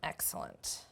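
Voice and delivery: breathy whispered approval to herself; whispered excellent. Real, not acted. Cook whispering to herself over the filled bowls, satisfied whisper. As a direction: whisper it, quietly pleased with the bowls. Cook pleased with plated rice.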